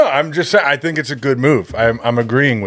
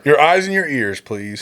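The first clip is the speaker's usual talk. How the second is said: whisper. Pretend. Joking plea to listeners.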